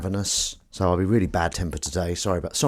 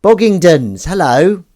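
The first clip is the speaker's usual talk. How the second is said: high, loud squeaky greeting; cat voice; 9 semitones higher, 11 dB louder, slower than usual. Acted. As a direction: greet them like a cheerful cat. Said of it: "I'm using my cat voice".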